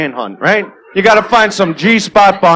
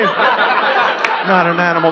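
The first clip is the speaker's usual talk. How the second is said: slow, drawn-out sneer on Not an animal; scornful mocking repeat; much slower than usual. Comedian mocking the Elephant Man's line, slow sneer. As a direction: drag the words out to ridicule him. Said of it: "mocking repeat".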